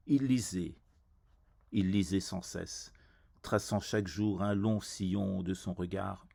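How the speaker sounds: measured poetry reading with pauses between phrases; solemn verse delivery, line by line; poem recitation. Acted. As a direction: recite it evenly, in a narrow pitch range. Recites their own poem.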